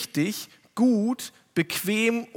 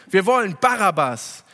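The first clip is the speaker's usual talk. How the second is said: rufende Menge; 2 semitones higher, 4 dB louder than usual. Retold or imitated. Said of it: "schrien sie zurück".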